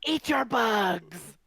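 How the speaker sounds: a greedy beast dragging the words out; hungry spider. Acted.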